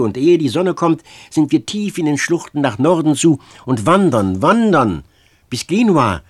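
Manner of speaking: urgent pleading. Acted. Girl pleading excitedly to flee.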